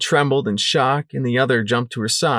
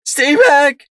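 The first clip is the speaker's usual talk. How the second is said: high, loud sobbing cry; sobbing plea; 8 dB louder than usual. Acted. Sunflower warning them off her colts, sobbing. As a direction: sob it out, clutching your foals. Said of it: "Sunflower sobbed".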